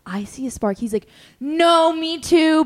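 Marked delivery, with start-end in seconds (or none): 1.4-2.6 higher, louder keen me too; eager agreement. Retold or imitated. Imitating the guy admitting he likes her, eager. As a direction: blurt it out a bit excited.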